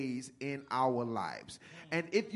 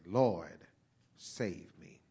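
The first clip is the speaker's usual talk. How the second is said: breathy whispered cry for help; whispered plea; 6 semitones lower, much slower than usual. Acted. Peter begging Jesus while sinking, whispered. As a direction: whisper it like a drowning man.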